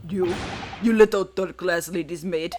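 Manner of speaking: a lightly voiced, hostile Russian sailor; gruff Russian sailor. The sailor berating the intruder he hates, in a gruff Russian accent. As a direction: sneer at him in a thick Russian accent.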